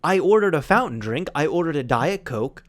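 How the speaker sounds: retold complaint with mild annoyance; a little annoyed. Friend retelling the drink mix-up at the table, a little annoyed. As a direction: imitate a mildly miffed customer. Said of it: "just a little bit annoyed".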